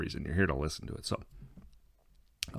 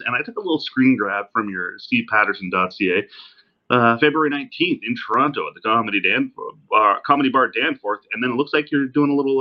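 distant laptop mic sound; tinny, far-off recording; from another room; 4 semitones higher, 7 dB louder than usual. Real, not acted. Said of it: "me sounding like I'm talking from the other room".

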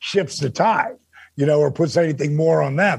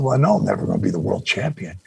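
much lower, fast embarrassed admission; sheepish; 9 semitones lower, faster than usual. Retold or imitated. Dennis admitting to Dusty he'll never be champion, low and fast. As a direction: rush it out, low and ashamed. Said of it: "Now I feel kind of stupid".

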